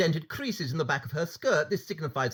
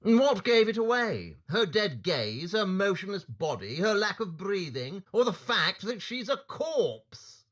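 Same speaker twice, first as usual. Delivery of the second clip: sarcastic; 5 semitones higher than usual. Acted. Holmes mocking Lestrade's question.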